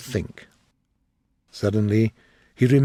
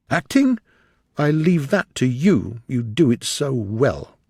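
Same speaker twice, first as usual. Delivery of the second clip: high scornful Acting then bitter; bitter retort; 3 semitones higher, 3 dB louder than usual. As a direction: sneer the question back at her. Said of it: "he answered bitterly".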